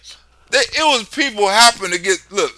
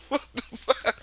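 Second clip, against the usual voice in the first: hushed disbelief; 2 semitones higher, 10 dB quieter than usual. Real, not acted.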